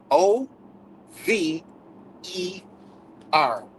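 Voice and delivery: each letter of OVER dropped with long pauses; spelled out letter by letter. Shown as a demonstration. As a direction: spell O, V, E, R slowly for finality. Spells the word for emphasis.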